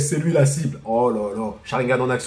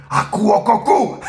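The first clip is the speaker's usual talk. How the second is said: mocking taunt; 4 semitones higher than usual. Mocking the fleeing general.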